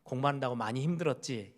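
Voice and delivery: soft, consoling parent; mild tender sympathy; gentle comfort. Retold or imitated. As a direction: ease the child's tiredness kindly. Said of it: "이런 위로의 말".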